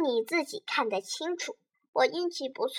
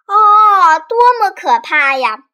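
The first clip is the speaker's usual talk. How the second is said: loud, high cry of horror; horrified exclamation; shocked cry; 4 semitones higher, 8 dB louder, slower than usual. Acted. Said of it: "詹姆斯叫起来".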